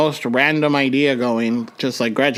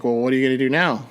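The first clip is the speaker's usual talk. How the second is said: voice of depression; 3 semitones lower than usual. Retold or imitated. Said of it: "my depression came back".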